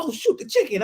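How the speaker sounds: lightly hammed-up sudden remembering; imitating startled mom. Mom down the hall remembers the chicken, mock startled.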